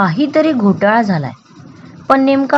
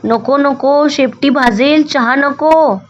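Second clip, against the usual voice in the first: pleading; 5 semitones higher, slower than usual. Acted. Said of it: "ससोबा गयावया करत ओरडत म्हणाला".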